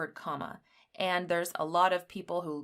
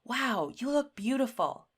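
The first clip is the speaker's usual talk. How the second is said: "Wow, you look beautiful" with real excitement; thrilled compliment; excited; 6 semitones higher than usual. Shown as a demonstration. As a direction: exclaim it, higher and lively. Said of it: "we're expressing excitement".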